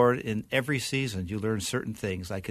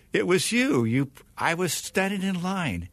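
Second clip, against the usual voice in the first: loud, high, emphatic telling; excited recognition; 4 semitones higher, 3 dB louder than usual. Retold or imitated. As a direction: burst out with grateful recognition. Young minister recounting gratefully.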